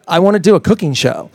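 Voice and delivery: usual speaking voice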